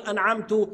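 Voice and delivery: أنعمت said as أنعمتُ with final U; wrong damma on ta. Shown as a demonstration. Teacher imitating a student's meaning-changing slip. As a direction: end on -tu. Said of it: "قلبت المعنى وقول".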